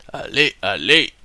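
put-on cheering on in a German accent; playful German-accented encouragement; a hint of a German accent, egging himself on. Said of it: "Pourquoi je prends un accent allemand?".

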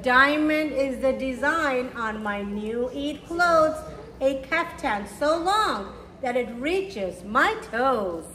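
gentle rhyming storybook read; reading to children. A narrator's reading. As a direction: read it slowly to little kids, savouring each rhyme. Reads picture book to children.

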